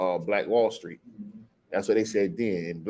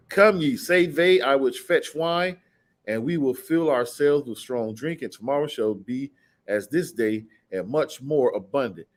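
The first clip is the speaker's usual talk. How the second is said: scripture reading; slower than usual. Real, not acted.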